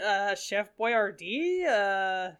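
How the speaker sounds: smartass answer. Pretend. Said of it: "I would say that to be an asshole".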